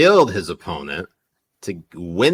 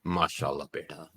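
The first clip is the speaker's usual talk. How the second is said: put-on Punjabi accent; 7 semitones lower, 11 dB quieter than usual. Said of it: "when you do your Punjabi accent".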